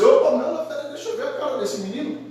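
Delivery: quick, high exclamation that halts someone; sudden stop. Acted. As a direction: cut in fast to stop the drowning. Pharaoh's daughter stops the servant.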